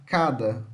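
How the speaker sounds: Cada opening on a hard K; careful model of Cada, K at the start. Shown as a demonstration. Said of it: "a pronúncia fica com K".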